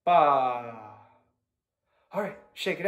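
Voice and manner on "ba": low "baah" sliding downward; falling "bah". Shown as a demonstration. Violin teacher ends the warm-up for students, low falling bah. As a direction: let the voice drop on a long bah. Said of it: "Now say".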